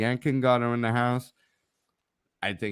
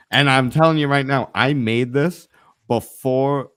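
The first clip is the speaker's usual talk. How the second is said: emphatic loud claim; 6 dB louder than usual. Real, not acted.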